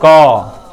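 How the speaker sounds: क, sounded from the throat. Shown as a demonstration. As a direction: say क deep in the throat. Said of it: "उसको बोल के देखो". (कंठ से क)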